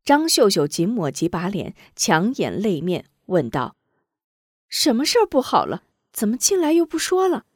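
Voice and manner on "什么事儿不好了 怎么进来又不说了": higher, fast questioning; quick, high impatient daughter; impatient young lady. Acted. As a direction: press the maid quickly.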